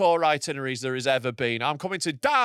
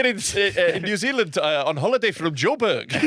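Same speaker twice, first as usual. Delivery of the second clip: put-on South African accent. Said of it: "That's South African".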